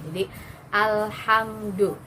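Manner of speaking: alhamdu slow with the tongue gliding off; alhamdu, l let flow smoothly. Shown as a demonstration. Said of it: "biarkan ... mengalir saja".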